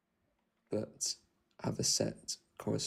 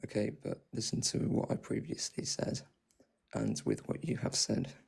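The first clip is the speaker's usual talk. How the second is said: vocal fry. Real, not acted. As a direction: speak in a creaky fry. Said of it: "all I hear is your vocal fry".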